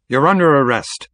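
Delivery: lightly voiced firm policeman; arresting cop. A narrator's reading. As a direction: declare it with police authority.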